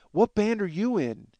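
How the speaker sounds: high, slow, oblivious question; imitated clueless woman. Woman asking a rock guitarist for his band, mock clueless. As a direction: drag it out high, like someone with no idea.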